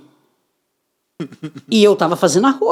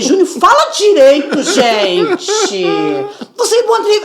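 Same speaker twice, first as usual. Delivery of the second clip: higher, louder, sharp scolding; scolding son; 9 semitones higher, 3 dB louder than usual. Retold or imitated. Mother scolds son loudly during job interview. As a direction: tell your son off mid-interview. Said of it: "começou eu brigando com o Júnior".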